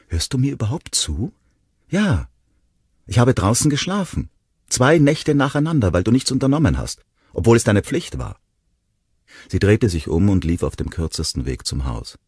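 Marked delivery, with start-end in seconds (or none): 0.1-8.4 higher and louder, furious; angry outburst. Acted. Ronnie yelling at Will at the dune, angry. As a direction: hurl it at him.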